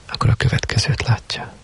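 quoted novel read in a hushed voice; hushed story reading. A narrator's reading. Reads quoted passage from the novel.

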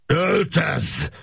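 mild mock yell. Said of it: "üvöltötte".

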